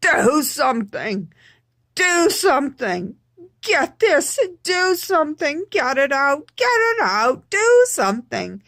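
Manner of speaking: loud, high mock yelling; retold yell. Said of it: "and I just yelled".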